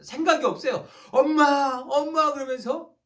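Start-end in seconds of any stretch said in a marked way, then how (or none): 1.1-2.3 higher, louder call for mom; child's loud shout. Retold or imitated. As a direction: call out as a little girl searching for her mother. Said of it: "큰 소리로 외칩니다".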